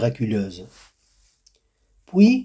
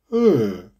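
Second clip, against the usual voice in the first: sighing hmm. A narrator's reading. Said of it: "soupira la vieille dame".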